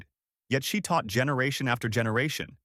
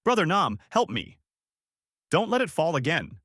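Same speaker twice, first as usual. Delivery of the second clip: higher pleading call; yelling; 7 semitones higher than usual. A narrator's reading. Woman in the flood begging her brother, high yell.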